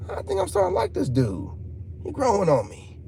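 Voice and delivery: a hint of a fan warming up; mock viewer voice. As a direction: pitch it up as a won-over fan. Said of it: "it's like".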